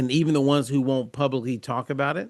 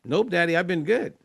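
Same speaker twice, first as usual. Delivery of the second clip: higher-pitched retold reply; lightly voiced daughter; 4 semitones higher than usual. Daughter answering dad about pain, lightly voiced reassurance.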